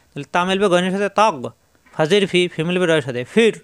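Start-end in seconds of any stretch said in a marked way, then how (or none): 3.2-3.6 ফির ending on a thick R; heavy R. Shown as a demonstration. Teacher showing learners ফির, heavy final R. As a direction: draw out ফির onto a full, heavy R. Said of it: "র মোটা".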